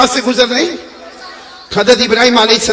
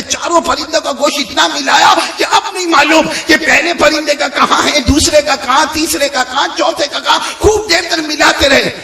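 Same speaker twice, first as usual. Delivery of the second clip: raised-pitch, mounting sermon delivery; rousing preaching; 5 semitones higher than usual. A narrator's reading. Preacher stresses how mixed the birds' meat became, rousing delivery. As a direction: drive the list home, pitch held up.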